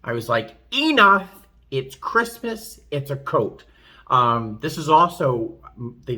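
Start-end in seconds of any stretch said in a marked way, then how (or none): 0.7-3.7 high, loud scolding; loud stern mum ending a fight; stern mother voice. Retold or imitated. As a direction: scold the passengers like a tough mother. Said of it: "I used my mother and my grandmother's voice".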